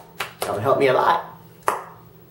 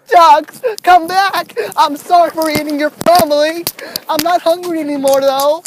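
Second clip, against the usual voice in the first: calling out; 4 semitones higher, 4 dB louder than usual. Real, not acted. Calling loudly after ducks.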